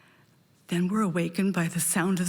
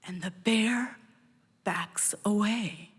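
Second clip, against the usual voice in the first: whispered. Real, not acted. Telling the audience the bear retreats, whispered. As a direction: let it fade as the bear backs off.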